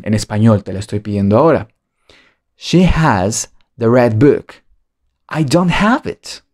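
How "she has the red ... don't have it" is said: slow model. Shown as a demonstration. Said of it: "cómo dirías esta oración".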